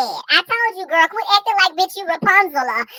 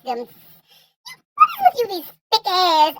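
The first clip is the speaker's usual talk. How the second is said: mock disbelief; much slower than usual. Real, not acted. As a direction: tease her drawn out. Teasing her taste in men.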